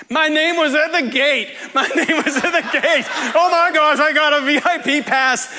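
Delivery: high-pitched, giddy re-enactment; going crazy, excited. Retold or imitated. Student reliving getting a studio pass, wildly excited. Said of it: "I was just going crazy".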